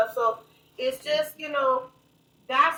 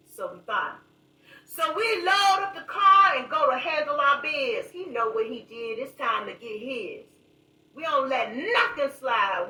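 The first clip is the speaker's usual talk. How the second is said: spoken word poem. Acted. Reciting a poem to reach young men, dramatic spoken word. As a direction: perform the poem like a street confession.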